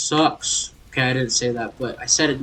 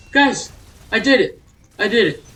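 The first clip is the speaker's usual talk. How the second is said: higher, happy announcement; telling the chat in triumph; excited, still buzzing; 5 semitones higher, 4 dB louder than usual. Real, not acted. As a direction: leftover victory glow. Just beat the sequence.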